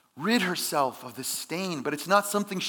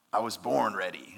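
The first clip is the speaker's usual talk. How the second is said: lower, self-assured boast; cocky answer; 7 semitones lower than usual. Retold or imitated. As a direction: toss it off like you've got nothing to prove. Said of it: "kinda like the cocky answer".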